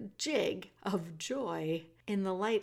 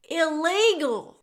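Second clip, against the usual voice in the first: loud, slow and higher yell; shouted back; 9 semitones higher, 11 dB louder, slower than usual. Acted. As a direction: call it back hard and drawn out. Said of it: "shouted Meg back".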